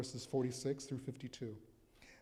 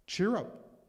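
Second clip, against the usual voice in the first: excited call; 6 semitones higher, 7 dB louder than usual. Acted. Crowd now calling the blind man.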